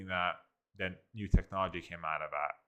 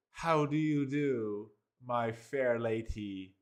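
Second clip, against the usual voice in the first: slow, high, hammed-up olde English gentleman; mock Shakespearean; 3 semitones higher, slower than usual. Mocking the AI's stiff courtly wording. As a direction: ham up a courtly old-fashioned greeting. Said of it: "definitely very Shakespearean".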